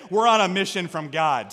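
demonstrating a Chicago accent; light Blues Brothers-style Chicago accent. Shown as a demonstration. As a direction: say it in your best Chicago accent. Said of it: "in your best Chicago accent".

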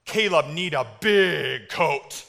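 put-on slow, drawn-out toddler talk; Caleb. Soaked toddler looking up at his dad, imitated slow child talk. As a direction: imitate a small child, stretching each word. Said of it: "He goes".

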